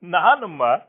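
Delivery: rising high and loud in grief; grief breaking through. Acted. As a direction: cry out to her, unable to hold it back. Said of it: "ದುಃಖ ತಡೆಯಲಾರದೆ".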